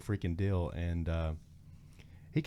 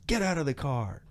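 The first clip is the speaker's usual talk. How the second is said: higher, forceful mock command; retold police order; 6 semitones higher than usual. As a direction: play the insistent deputy. Deputy repeats order to Travis.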